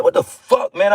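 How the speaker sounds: exasperated outburst. Retold or imitated. Preacher acts out his own irritation at people, fed-up outburst. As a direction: throw it out in disbelief. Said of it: "That, I'm, this is me".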